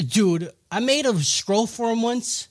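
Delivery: slow airy breathy voice. Retold or imitated. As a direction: breathe the words out slowly. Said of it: "Yeah, she's breathy".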